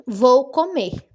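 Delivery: slow, loud model sentence; example sentence. Shown as a demonstration. Teacher giving the class an example, slowly. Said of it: "vamos ver um exemplo".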